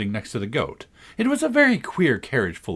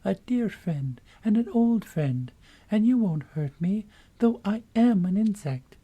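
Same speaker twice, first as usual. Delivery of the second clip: much higher little insect voice, pleading; tiny voice; 10 semitones higher than usual. A narrator's reading. Gnat pleading with Alice not to hurt it, very high. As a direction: beg her to stay friends. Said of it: "the little voice went on".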